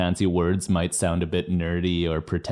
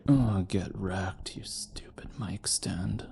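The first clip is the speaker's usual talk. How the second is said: whisper; 9 dB quieter than usual. Real, not acted. Cursing the mic stand under breath.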